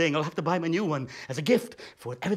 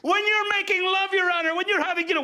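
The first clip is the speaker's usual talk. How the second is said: sultry mock voice; 10 semitones higher, 3 dB louder than usual. Mock erotic aside to judge.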